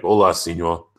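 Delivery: lightly put-on Mexican accent; a quick, half-hearted Mexican accent greeting. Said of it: "I tried my Mexican accent".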